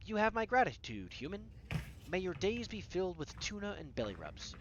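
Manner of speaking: a hint of stately British royalty; regal cat. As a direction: bestow thanks like a British monarch. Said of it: "gives me a regal nod".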